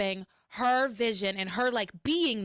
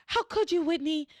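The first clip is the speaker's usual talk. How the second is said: retold yelling; 6 semitones higher than usual. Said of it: "she's outside yelling".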